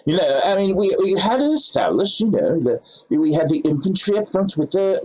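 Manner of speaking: hammed-up British officer's accent; badly faked British accent, mildly put out; horrible British accent. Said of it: "attempt at least an accent on that one".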